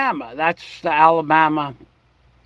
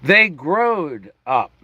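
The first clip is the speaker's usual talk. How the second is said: Alabama drawl; slower than usual. Shown as a demonstration. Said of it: "but in Alabama".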